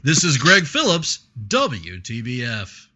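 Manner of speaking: slow, punchy sign-off; radio reporter voice. Shown as a demonstration. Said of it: "that was my reporter voice".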